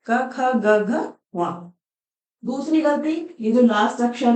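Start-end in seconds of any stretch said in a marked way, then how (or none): 0.1-1.1 "क, ख, ग, घ" said lightly and let go with no vowel; light, clipped letters. Shown as a demonstration. Teacher showing the correct letters, said lightly with no vowel. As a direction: barely voice each letter, then drop it. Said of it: "हल्का सा बोल के छोड़ देते हैं".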